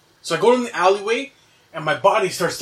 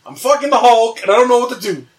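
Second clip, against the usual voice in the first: higher, agitated pleading; retold urgent plea; 5 semitones higher, 5 dB louder than usual. Dreamer begging roommates to call the police, urgent. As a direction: insist on it, voice climbing and getting louder.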